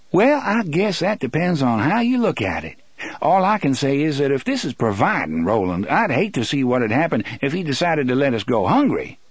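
lightly voiced Susanna, wry. Susanna answering Roland about God providing, wry. Susanna's amused reply in story.

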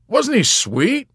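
high, loud, drawn-out coo; gushing. Acted. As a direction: gush it slowly at high pitch. Yossarian gushing over chaplain.

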